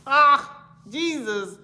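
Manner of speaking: breathless laughter, voice cracking up; laughing fit, squeaky and loud. Real, not acted. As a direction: giggle through the words. Cracking up at herself.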